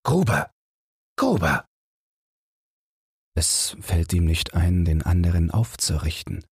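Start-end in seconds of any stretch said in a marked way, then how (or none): 0.0-1.7 helpless call. A narrator's reading. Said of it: "steht ratlos mit hängenden Händen und ruft".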